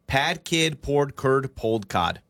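slow. Shown as a demonstration. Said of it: "Say it faster".

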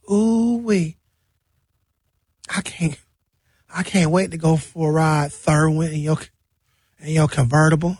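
a light put-on lisp, her own voice mostly; giddy woman with a mild lisp, lightly voiced. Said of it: "Why does she have a speech impediment?".

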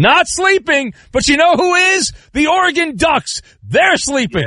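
gleeful dig at the Ducks; mocking jab. Real, not acted. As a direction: rib the caller about his team. Host jokes about rival team.

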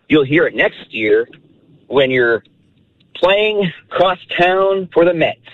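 measured, singsong limerick reading; proud amateur poet reading a limerick aloud; limerick recital. Real, not acted. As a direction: recite your own verse line by line, pausing between lines. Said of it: "this is my limerick".

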